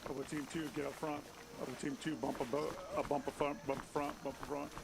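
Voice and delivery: loud clipped commands; firm squad orders. Real, not acted. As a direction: push the team up, firm and loud. Squad leader pushing team forward.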